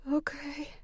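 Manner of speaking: breathy unvoiced okay; whispering. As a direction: barely breathe the word. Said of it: "she whispered".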